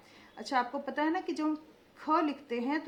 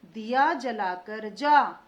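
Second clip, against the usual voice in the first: slow, louder, every syllable clear; slow dictation; 2 semitones lower, 6 dB louder, slower than usual. Shown as a demonstration. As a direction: dictate it slowly to the class. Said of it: "देखते जाइए मैं कैसे उच्चारण कर रही हूँ".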